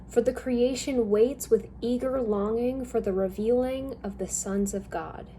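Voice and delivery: normal talking voice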